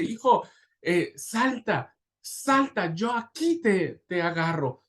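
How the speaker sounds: high, drawn-out urging, acted; anguished father's cry. Father urges his son to jump from the balcony, anguished call. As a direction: call up slowly and urgently to make him jump. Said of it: "la angustia del padre, el grito del padre".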